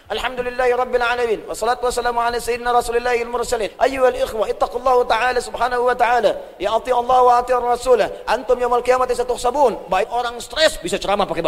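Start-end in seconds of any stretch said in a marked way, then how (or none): 0.1-9.9 a hint of a formal Arabic preacher's opening; lightly voiced Arabic khutbah recital; imitated Arabic sermon. Imitating a sick man at the Haram preaching in Arabic, lightly intoned. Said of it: "Itu bisa ceramah pakai bahasa Arab".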